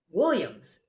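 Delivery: lightly imitated official roll call. Border guard back with the passports, calling out. Guard returns and calls her surname.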